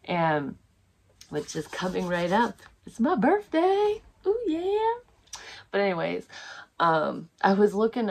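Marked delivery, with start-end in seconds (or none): 2.9-4.9 high-pitched silly birthday singsong; mock party cheer, pitched way up; playful celebrating. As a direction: squeal it in a high, goofy little voice. Celebrating her upcoming birthday.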